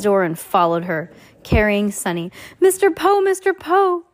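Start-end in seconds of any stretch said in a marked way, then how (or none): 2.6-4.0 high, raised-voice hail; urgent, high-pitched shout; excited calling. A narrator's reading. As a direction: call his name eagerly, twice. Children calling out to Mister Poe.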